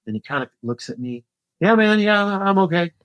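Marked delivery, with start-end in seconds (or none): 1.6-2.9 higher-pitched, imitating the dropped rider; retold brush-off. Dropped rider answering the man who stopped, retold high-pitched brush-off. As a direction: play a rider insisting he's fine, pitched up.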